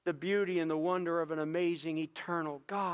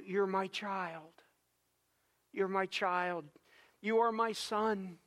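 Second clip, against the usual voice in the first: tender; 3 dB quieter, slower than usual. Acted. God speaking to each child.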